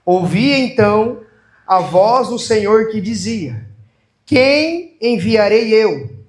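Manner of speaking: slow, deliberate proclamation with long phrases; stately liturgical reading; solemn scripture reading. Real, not acted. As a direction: proclaim each phrase to a congregation, unhurried.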